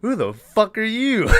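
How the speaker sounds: high, laughing menace; playful impression of a doll snarling; laughing mock Chucky. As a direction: squeak it out through a laugh. Chucky confronting the boy.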